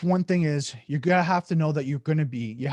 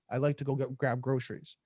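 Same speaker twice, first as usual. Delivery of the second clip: softer, measured simple request; calm and unhurried; 5 dB quieter than usual. Shown as a demonstration. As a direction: let it settle down gently. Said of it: "I'm going nice and slow and taking pace".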